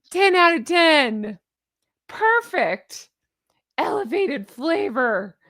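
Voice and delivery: slow, hammed-up gushing; mock review read. Mocking the rave reviews in the newsletter, slow and gushing. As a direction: drag out each rave mockingly.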